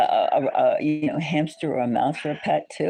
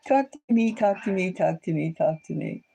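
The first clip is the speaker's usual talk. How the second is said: cat voice; 3 semitones higher than usual. Retold or imitated. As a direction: plead like a cat, trailing off. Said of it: "And so he says".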